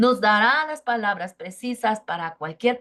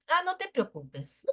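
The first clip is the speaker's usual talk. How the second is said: voice of God; 6 semitones higher than usual. Retold or imitated. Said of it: "Y le dice el Señor".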